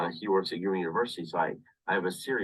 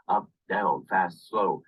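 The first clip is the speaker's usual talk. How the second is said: "up, down, fast, slow" each punched out louder; moving the voice; 4 dB louder, slower than usual. Shown as a demonstration. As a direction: act out each word with the voice. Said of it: "move your voice like this".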